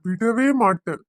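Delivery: firm, angry burst; angry vow. Acted. Father refusing to spare the man who betrayed his daughter, angry. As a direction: swear it with force. Father vows to confront the son-in-law.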